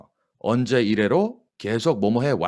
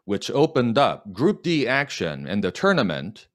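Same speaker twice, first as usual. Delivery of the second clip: slow dictation; much slower than usual. Shown as a demonstration. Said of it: "시작".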